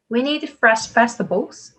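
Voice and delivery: slow reading, lifting the end of vegetables; rising list intonation. Shown as a demonstration. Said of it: "올라가고요". (vegetables 끝을 올려 천천히 읽기)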